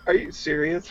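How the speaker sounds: laughing disbelief. Real, not acted. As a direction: squeal it through a laugh.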